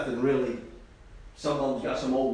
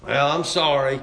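mildly resentful, put-on sorry; mock a half-hearted, resentful apology; grudging apology; 4 dB louder than usual. Preacher imitating people who apologize and resent it, grudging. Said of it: "apologize and resent it".

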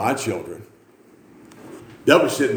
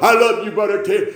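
lightly imitated eager greeting, a bit higher; James; 9 semitones higher, 4 dB louder than usual. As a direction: imitate a simple, loving churchgoer's hello. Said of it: "and he'd say".

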